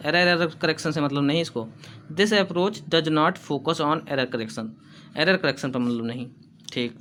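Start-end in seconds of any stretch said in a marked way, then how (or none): 2.1-4.7 slow, careful dictation pace, said twice; teacher dictating notes. Shown as a demonstration. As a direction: read it slowly so students can write. Teacher dictating an English point.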